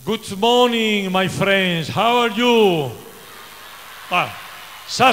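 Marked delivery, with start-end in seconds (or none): 0.0-2.9 slow English greeting. Shown as a demonstration. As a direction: greet the crowd slowly in English. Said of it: "in English".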